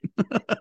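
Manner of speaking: quick high-pitched chuckle; brief laugh after a jab; short teasing laugh. Real, not acted. Host ribs Brian over his game choice, chuckling.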